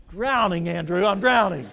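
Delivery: loud desperate cry for help; panicked yell from the water; drowning cry. Acted. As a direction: shout it like you're going under. Pastor acts drowning man.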